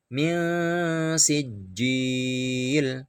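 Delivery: min sijil with the nun hidden and a short hum; ikhfa. Shown as a demonstration. (min sijil dengan ikhfa, samar berdengung)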